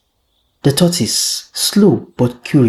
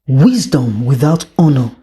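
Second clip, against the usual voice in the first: stern king; 2 semitones higher than usual. Acted. King judges the tortoise.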